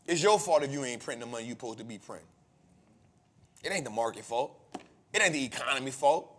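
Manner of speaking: low, fast, under his breath to himself; quiet self pep talk. Retold or imitated. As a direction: mutter a quick stern pep talk to yourself. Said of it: "it's me telling myself".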